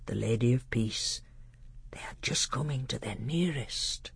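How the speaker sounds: lightly voiced, hushed learned doctor; measured, grave teacher with a hint of awe; solemn old tutor. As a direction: speak as a tutor revealing the heavens to a prince.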